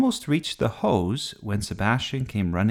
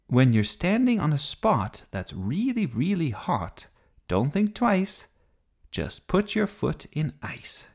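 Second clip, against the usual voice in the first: higher-pitched sing-song rhyme; reciting a rhyme; 8 semitones higher than usual. A narrator's reading. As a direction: chant it like a child's safety rule, slowing at the end. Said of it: "Hey, that rhymes".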